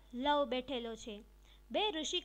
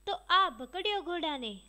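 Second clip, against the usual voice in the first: put-on louder, proud cry of a boy grabbing the horse; defiant boast; 3 semitones higher, 6 dB louder than usual. Lav catching the sacrificial horse, a loud proud cry. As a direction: shout it out like a bold young warrior.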